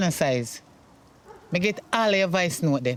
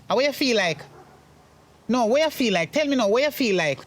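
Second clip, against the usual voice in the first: angry demand; 6 semitones higher than usual. Acted. Mother confronting son angrily.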